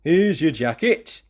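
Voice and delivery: put-on boy calling to Tim about his jacket. A narrator's reading. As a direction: call it out to a friend. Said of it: "called Andy Anderson".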